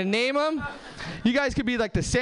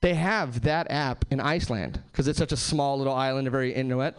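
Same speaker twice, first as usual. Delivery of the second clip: a hint of a patient know-it-all; mock woman explaining; 8 semitones lower than usual. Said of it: "she's like".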